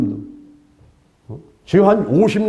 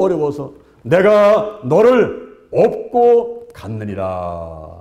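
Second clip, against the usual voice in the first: voice of Jesus; slower than usual. Acted. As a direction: answer gently and slowly as Jesus. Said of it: "예수님께서 하시는 말씀이". (예수님의 느리고 낮은 장엄한 목소리)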